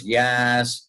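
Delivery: lightly imitated casting director on the phone; a hint of his odd way of answering; Warren Pincus. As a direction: mimic the man picking up. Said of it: "he talked like that".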